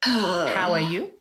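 mock translation. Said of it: "I think he said".

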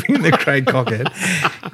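slow, laughing through the words; laughing at his new nickname. Real, not acted. Repeating the mate's jibe, laughing.

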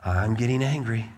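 put-on a small boy starting to simmer, held in check; imitated anger just starting to build; simmering kid anger. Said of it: "you can hear the whistle start picking up".

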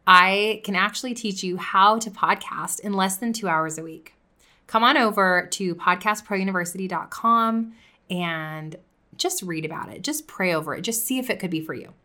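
coffee shop vibe, easygoing sell; soft casual pitch. Shown as a demonstration. Podcaster to listeners, relaxed coffee shop pitch. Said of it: "I brought my tone down".

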